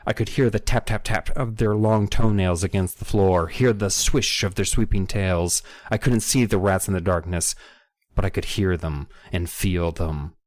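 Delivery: steady, dramatic audiobook reading; story narration. Acted. Podcaster reading a scary rat chase aloud, story narration. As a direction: read it out as a suspense story.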